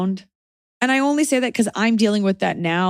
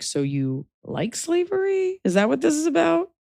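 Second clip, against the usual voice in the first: mock innocent accusation; 11 semitones higher than usual. Strawmanning the woman who called her Yankee, mock innocent. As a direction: pitch it way up, feigning innocent curiosity.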